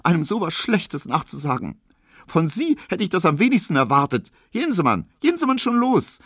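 high, tearful accusation rising in force; sobbing reproach. A narrator's reading. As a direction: send him away through acted tears. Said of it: "schluchzte sie".

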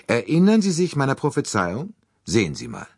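deutlich höher, lauter zurückgerufen; über die Schulter gerufen. A narrator's reading. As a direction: ruft seinem Freund über die Schulter zu. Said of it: "rief er Monsieur Bouc zu". (ruft Monsieur Bouc über die Schulter zu)

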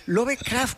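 "Lovecraft" said the Spanish way, as it is written; old local pronunciation. Retold or imitated. Guest recalling how they said the author's name back then, old local pronunciation. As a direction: say "Lovecraft" as in rural Spain. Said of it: "como lo pronunciábamos entonces".

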